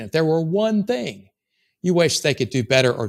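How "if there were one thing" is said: slow phrase with "one" drawn out and punched; stress on "one". Shown as a demonstration. Coach demonstrates a specific question to a prospect, stressing "one". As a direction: lean hard on "one" to make it specific. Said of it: "I'm asking a specific question".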